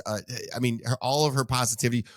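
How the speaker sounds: normal talking voice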